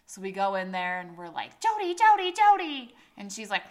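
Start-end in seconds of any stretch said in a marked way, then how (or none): 1.6-2.9 loud, high, repeated name call; calling to wake. Retold or imitated. They go in to wake sleeping friend, loud high calling. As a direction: call out urgently to rouse a sleeper.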